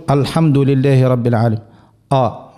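الحمد opened on a thick, dark آ; heavy آ as a recitation error; mistaken heavy hamza. Shown as a demonstration. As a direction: demonstrate the over-emphatic first sound of الحمد. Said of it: "هذا خطأ".

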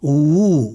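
و said as a full, lip-rounded wu; careful isolated wu sound for و; waw with damma. Shown as a demonstration. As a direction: round the lips fully and hold و as wu. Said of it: "المتحرك بالضم".

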